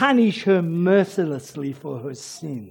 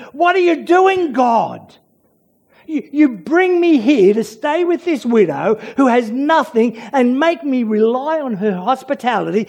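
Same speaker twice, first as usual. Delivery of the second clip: protesting. Retold or imitated. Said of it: "he's protesting".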